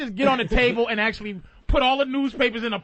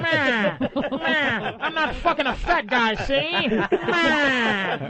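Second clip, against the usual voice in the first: lightly voiced old gangster drawl; a hint of a tough-guy movie mobster, laughing through it; Edward G. Robinson; much slower than usual. Host riffing on a caller, mock old gangster voice. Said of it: "Edward G. Robinson voice".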